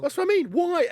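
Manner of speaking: exasperated outburst. Real, not acted. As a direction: burst out, fed up with the trolls. Ranting about forum trolls.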